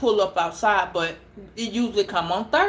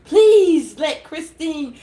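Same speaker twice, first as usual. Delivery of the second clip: slow pleading prayer, louder; imitating earnest prayer; 5 dB louder, slower than usual. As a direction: beg the Lord slowly, hands folded. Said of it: "And she said".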